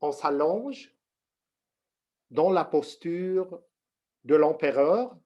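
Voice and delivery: slow, measured instructions with long pauses; unhurried meditation teacher, pausing often; guided meditation. Real, not acted. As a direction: guide them into the posture slowly, phrase by phrase.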